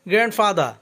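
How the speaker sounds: গ্র্যান্ডফাদার ending "fada", no R; silent final R. Shown as a demonstration. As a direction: leave the last R off গ্র্যান্ডফাদার. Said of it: "এখন থেকে এটাকে গ্র্যান্ডফাদার বলবো". (গ্র্যান্ডফাদার, শেষে "ফাদা", র ছাড়া)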